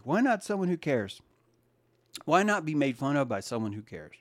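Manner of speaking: ordinary delivery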